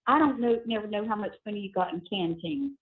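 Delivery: tinny phone call audio; payphone call. Real, not acted. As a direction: voices over a prison phone line. Recorded prison phone call played.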